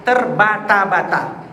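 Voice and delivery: "terbata-bata" drawn out syllable by syllable; halting. Shown as a demonstration. Preacher illustrating the Arabic term for stumbling readers, slow and halting. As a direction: stretch TERBATA-BATA slowly, like a faltering reader. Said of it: "Orang membaca Al-Quran terbata-bata".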